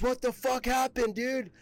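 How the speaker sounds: a hammed-up boss, pitched far up, demanding; mock angry boss. Boss stepping out of the truck at the crash, high mock outrage. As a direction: mimic the furious boss pulling up.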